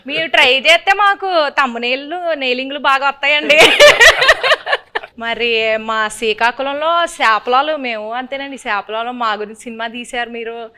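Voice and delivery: lightly put-on Srikakulam village accent; mock Srikakulam dialect, lilting delivery; Srikakulam slang. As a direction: play a Srikakulam local asking questions. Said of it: "కొంచెం Srikakulam slang".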